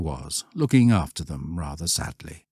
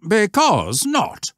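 slow, firm and higher; curt master; 14 semitones higher, 4 dB louder, slower than usual. A narrator's reading. Scoutmaster refusing Stanley's question, slow and curt. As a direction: close the question flatly.

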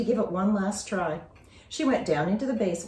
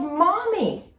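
high, louder cry; yelling; 11 semitones higher, 5 dB louder than usual. Acted. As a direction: call for Mom from the roof. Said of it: "She yelled".

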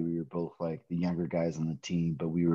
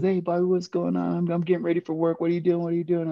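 a much higher mom voice, hurried; imitating mom; 12 semitones higher than usual. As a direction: pitch way up to play your mom on the phone. Mom voiced in story on phone.

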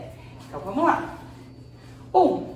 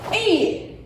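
kiai shout; 6 semitones higher than usual. Shown as a demonstration. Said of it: "fazer o grito".

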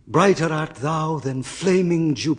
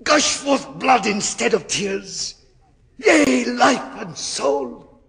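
much higher, louder panicked cries; terrified screaming; 9 semitones higher, 5 dB louder than usual. Acted. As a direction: scream it as devils seize you. Faustus in terror, held by devils.

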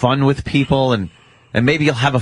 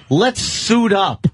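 slow, drawn-out bossy order, raised; mock boss command; 6 semitones higher, much slower than usual. Boss orders his helper to get dressed, slow pompous command. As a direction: ham up the boss telling him to suit up. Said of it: "he'd go".

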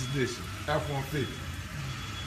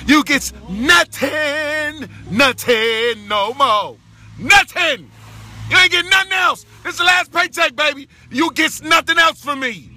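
taunting; 3 semitones higher than usual. Real, not acted. Taunting ex-wife Renee.

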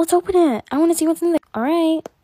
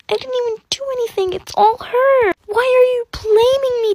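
high, tearful pleading; upset protest; 11 semitones higher, 6 dB louder than usual. Acted. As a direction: near tears, protesting innocence. Wrongly blamed student protests to teacher.

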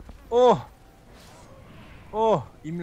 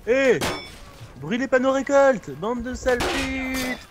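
angry yell; 6 semitones higher than usual. Real, not acted. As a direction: yell at them to stop. Yells at burning enemies.

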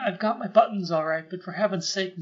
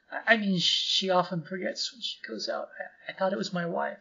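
stammering, flustered apology; nervous gibbering. Acted. Timid clerk stammers to his boss, nervous gibbering. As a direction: trip over the words in front of the boss. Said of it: "will you stop gibbering".

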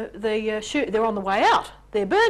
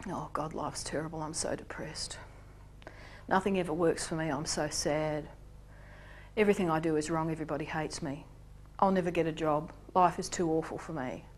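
moaning victim; 5 semitones lower, 7 dB quieter than usual. Pretend. Victim voiced in despair.

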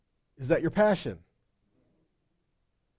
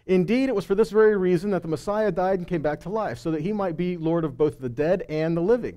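scripture reading; 4 dB louder than usual. Acted. Reads scripture aloud.

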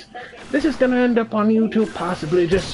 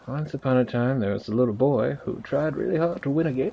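mock storybook narration; 4 dB quieter, faster than usual. Streamer narrates own defeat as a fairy tale, mock storybook. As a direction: tell it like a little fairy tale.

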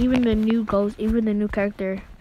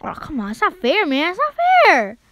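rising, higher complaint; much higher indignant whine; whiny protest; 5 semitones higher, 4 dB louder than usual. Real, not acted. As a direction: protest it like it's unfair. Losing, complains loudly.

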